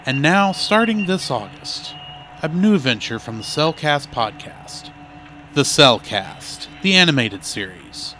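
promo trailer read; announcer voice. Acted.

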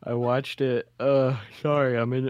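talking through a yawn; words stretched by a yawn. Real, not acted. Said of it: "I'm mid yawn".

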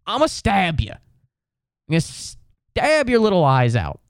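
exasperated mock threat. Mock threat to the annoying cat.

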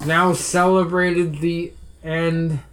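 put-on drunk voice. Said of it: "what a drunk person looks like".

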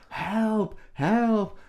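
high shouts of help at the policeman; mock cry for help. Woman yelling to a policeman across the road, mock panic. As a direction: call out for help, hammed-up. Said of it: "she's shouting across the road".

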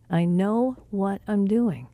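"I know what I'm doing" slowed right down; measured, word-by-word insistence; slow, deliberate repeat. Retold or imitated. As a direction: spell out each word slowly and firmly. Repeated reassurance, second take slower.

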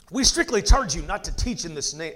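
lightly British Pharisee; slightly put-on British officialdom; British accent. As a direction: read it with a touch of British accent. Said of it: "hard not to do a British accent".

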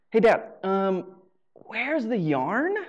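put-on slow, stretched-out kid asking dad; drawn-out kid plea. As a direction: drag out each word like an impatient kid. Kid pestering dad again.

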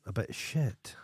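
whispered put-down. Real, not acted. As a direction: drop to a whisper for the insult. Candid put-down aside.

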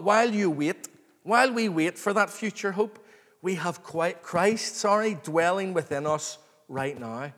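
ordinary talk, nothing marked

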